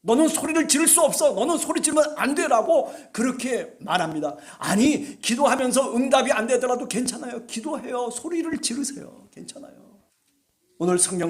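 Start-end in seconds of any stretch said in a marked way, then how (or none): 0.0-2.9 devil's voice. Retold or imitated. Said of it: "마귀는 우리를 향해서 잠잠하라고 얘기합니다". 9.3-10.0 soft whispered reassurance; a hushed "괜찮아요" under the breath. Real, not acted. Gentle reassurance after urging prayer.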